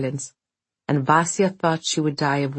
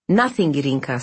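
snapped; faster than usual. Acted. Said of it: "snapped Vasya".

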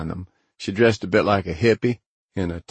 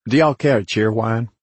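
put-on West Virginia accent; 4 semitones higher, 3 dB louder than usual. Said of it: "my West Virginia showing".

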